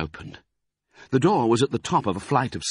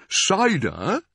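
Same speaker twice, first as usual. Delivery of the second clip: gruff badger voice; 10 semitones higher than usual. A narrator's reading.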